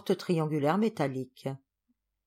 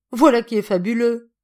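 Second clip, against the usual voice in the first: delighted; 4 semitones higher, 9 dB louder than usual. Acted. Hostess overjoyed.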